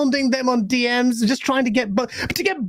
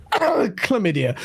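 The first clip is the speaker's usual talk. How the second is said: chesty cough; slower than usual. Real, not acted. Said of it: "I'm coughing".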